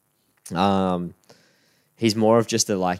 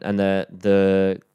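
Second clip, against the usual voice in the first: slow, drawn-out the whispers; mock ominous build-up. Podcaster teases Des Hasler rumours, slow and mock-ominous. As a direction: stretch out the whispers like a dramatic reveal.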